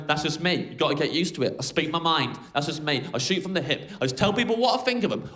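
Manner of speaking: lightly mock the blunt guy who speaks his mind; mock rude bloke. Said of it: "backing it up by going".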